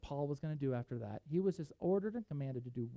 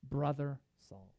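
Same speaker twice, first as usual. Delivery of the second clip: slow tender greeting; 3 semitones lower, slower than usual. Shown as a demonstration. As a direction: say Brother Saul like a kind welcome. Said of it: "what does Ananias say?".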